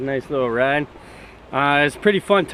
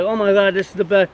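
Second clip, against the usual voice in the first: mock ecstatic girl; 4 semitones higher, 4 dB louder than usual. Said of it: "she's like".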